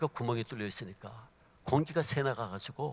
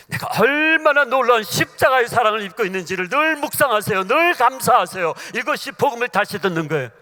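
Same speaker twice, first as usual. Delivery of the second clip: loud, driving exhortation; fervent preaching; 5 semitones higher, 12 dB louder than usual. Acted. Preacher exhorting the congregation, loud and fervent. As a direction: call the congregation to gratitude.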